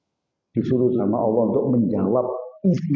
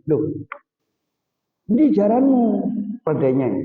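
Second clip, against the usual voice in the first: surprised wife; 6 semitones higher than usual. Retold or imitated. Wife questions missing horse.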